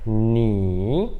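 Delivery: "ni" lento, mergulha e sobe no fim; terceiro tom. Shown as a demonstration. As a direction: demonstre "ni" descendo o tom e subindo. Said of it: "ele desce e sobe". ("ni" alongado que desce e sobe)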